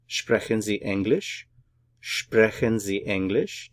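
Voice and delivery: "Sprechen Sie English" with a clear rise on English; "Sprechen Sie English" lifting sharply on the last word; question intonation. Shown as a demonstration. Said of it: "Put it all together".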